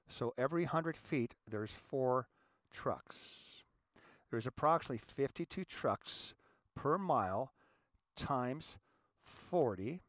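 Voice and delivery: measured, word-by-word counting with pauses; deliberately slow. Real, not acted. Lecturer walking listeners through the truck math, slowly. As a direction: spell out the sum slowly, piece by piece. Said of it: "try to say this slowly".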